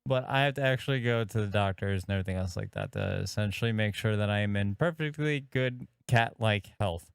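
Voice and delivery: put-on slightly slurred, like mildly drunk; slurred speech. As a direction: slur the words a little. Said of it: "you're slurring your words a little bit".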